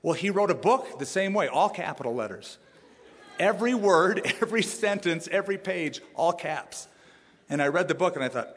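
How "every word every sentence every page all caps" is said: building, higher emphatic list. Real, not acted. Preacher marveling at friend's all-caps book, emphatic. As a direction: hammer each item, amused.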